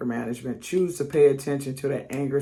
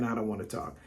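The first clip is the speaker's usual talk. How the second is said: soft, lower sulky "I don't wanna talk"; sulky pout; 4 semitones lower, 9 dB quieter, faster than usual. Retold or imitated. Wife pouting at her husband, soft sulky mumble. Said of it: "I'm passive aggressive".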